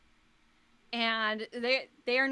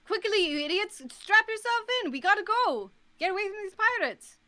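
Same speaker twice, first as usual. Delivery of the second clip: higher, louder barking orders; urgent angry captain; 9 semitones higher, 3 dB louder than usual. Acted. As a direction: snap at the crew to hurry. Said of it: "the captain goes".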